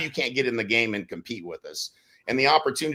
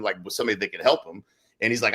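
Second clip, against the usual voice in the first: ordinary talk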